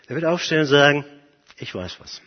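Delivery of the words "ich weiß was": low, very soft insinuation; sly hushed tattling. Acted. Satan hints to God that he knows something, sly and hushed. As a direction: drop it quietly like a secret.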